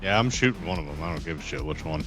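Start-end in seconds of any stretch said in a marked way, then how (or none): none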